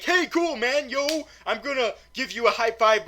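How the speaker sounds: very high, loud, goofy greeting; hammed-up cool dude. Scientists meeting each other in the lab, hammed-up high-pitched cool-dude greeting. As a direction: overdo the buddy-buddy hello. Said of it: "and they're like".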